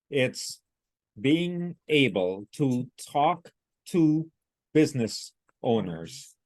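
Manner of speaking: slow, word-by-word robotic reading. Retold or imitated. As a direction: read each word separately, like a machine. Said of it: "like a robot".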